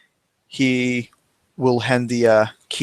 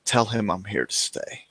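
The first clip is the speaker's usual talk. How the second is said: quiet firm reply; 7 dB quieter than usual. Acted. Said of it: "turn back and say".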